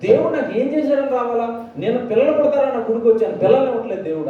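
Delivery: imitating a fed-up man venting at God; half-hearted retold rant; retold angry outburst. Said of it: "blast అయిపోయి ఓ రోజు burst అయిపోయాడు".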